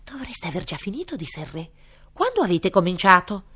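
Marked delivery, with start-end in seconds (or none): 0.0-1.1 quick breathy whisper; whispered king line. Acted. King's voice. 2.1-3.4 booming king. Acted. King's voice.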